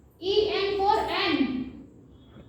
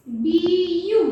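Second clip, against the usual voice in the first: बीयू called out loud with a rising end; teacher stressing बीयू; loud teaching demo; 6 dB louder, much slower than usual. Shown as a demonstration. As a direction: say बीयू loudly and clearly for the class. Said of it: "क्या बोल रही हूँ मैं".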